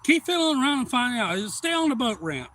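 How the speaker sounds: high, loud mock holler; imitated shouted dare, easing slightly at the end; retold warning. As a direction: holler the threat across the water.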